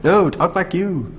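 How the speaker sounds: high, loud, drawn-out plea; exasperated correction. Retold or imitated. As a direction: plead like a worn-out director, slowly. Director correcting his actor, retold.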